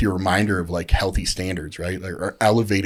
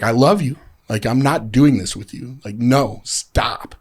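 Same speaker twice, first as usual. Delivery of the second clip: raised, emphatic retold plea; firm loving intervention; 4 semitones higher, 5 dB louder than usual. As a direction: put your foot down with a friend you love. Friend's firm intervention, re-enacted.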